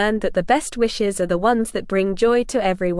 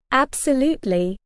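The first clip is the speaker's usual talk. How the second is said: eager squirrel, a bit higher; excited; 3 semitones higher than usual. Acted. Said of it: "Nutty said excitedly".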